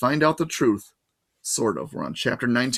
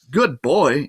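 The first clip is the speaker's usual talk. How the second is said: melancholy; 3 semitones higher, 5 dB louder than usual. Acted. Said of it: "her voice sounded melancholy and uncertain".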